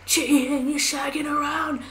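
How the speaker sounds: half-whispered mock rage; slow, hissed mock fury; imitating a furious yell. Retelling the husband's rage in a whisper. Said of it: "He was like".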